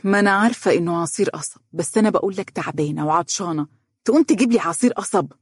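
quick, rising indignation, peaking at the end; indignant protest. Acted. Girl protests to Faris about sugarcane juice, indignant. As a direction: scoff at his choice of drink, rising. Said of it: "قالت باستنكار".

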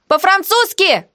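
high shouted answer; shouted retort; shouting. A narrator's reading. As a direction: yell it back up. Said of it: "заорала я в ответ".

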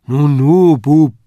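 put-on loud, sharp old woman's cry; startled exclamation. A narrator's reading. Frau Tendler startled by the boy, exclaiming. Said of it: "rief sie".

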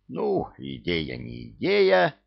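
slow, sulky cut-off; curt sulky retort. A narrator's reading. The sulking veteran brushing off Yaga, curt retort. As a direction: snap back grudgingly. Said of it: "обрезал набычившийся бывалый".

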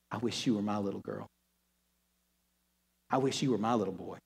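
very soft and low, almost breathless; tender whisper. Acted. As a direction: whisper it like a father's wish. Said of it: "God is whispering into your good ear".

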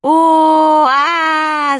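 loud high cry of pain; painful howl. Acted. Manya struck on the nose by the door, howling. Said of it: "заорала Маня".

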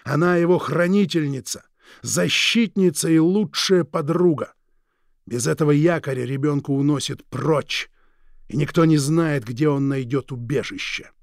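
slow, silky, threatening drawl; menacing villain. Acted. Villain Krieg menacing the Forbes couple, slow and silky. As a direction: savour each word like a veiled threat.

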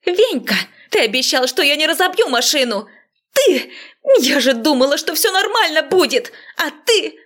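high, shrill-free angry yelling at Venka; angry woman shouting at her neighbour. A narrator's reading. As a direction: yell at him, furious and high. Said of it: "Орала на Вениамина Марья Догилева".

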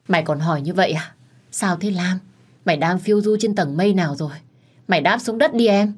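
lightly voiced bossy senior colleague, exasperated; scolding older colleague. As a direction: nag her like a bossy big sister.

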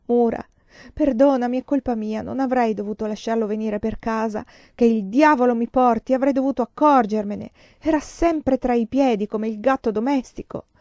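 agitated self-reproach. Acted. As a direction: blame yourself heatedly and beg forgiveness. Agitated self-reproach acted in novel. (sfogo agitato di autorimprovero, con voce alta)

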